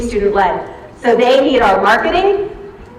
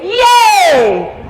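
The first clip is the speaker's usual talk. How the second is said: cheer demo; 6 semitones higher than usual. Shown as a demonstration. Showing the audience their cheer response, happy yay. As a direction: cheer it for the crowd. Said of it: "I need you to either say".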